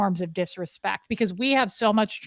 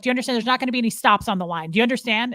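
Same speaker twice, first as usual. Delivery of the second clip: louder, commanding; Scientology command tone; 3 semitones higher, 3 dB louder, much faster than usual. Retold or imitated. Speaker lecturing sister, mock commanding voice. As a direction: lay down the rules. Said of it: "Don't talk to me like Dad does".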